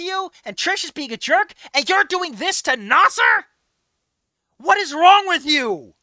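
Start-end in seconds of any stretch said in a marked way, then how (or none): 4.6-5.9 exasperated scolding. Real, not acted. Scolding game character.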